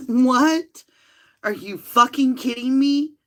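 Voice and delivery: "What?" loud, high, rising through a laugh; laughing disbelief. Real, not acted. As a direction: laugh in outrage at the absurd case.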